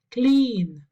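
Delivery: "Clean" with its final n held as a nasal. Shown as a demonstration. Teacher shows the verb's voiced ending, "Clean" held on n. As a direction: lengthen "Clean" into the n. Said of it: "con un sonido nasal".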